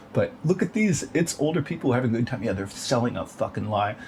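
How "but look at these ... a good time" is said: mock clickbait voice. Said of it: "souls who are just like".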